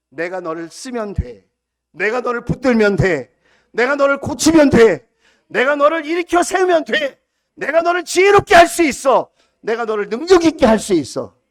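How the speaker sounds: 점점 커지며 크게 외치는 하나님의 약속; building proclamation. Retold or imitated. God's promise proclaimed, building up. (하나님의 약속을 전하며 점점 크게 외치는 설교)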